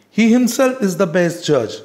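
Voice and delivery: "He himself" lifted and firm; teacher's emphatic example on "He himself"; stress on himself. Shown as a demonstration. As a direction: put the weight on "He himself", falling to judge. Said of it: "giving a proper stress on the sentence".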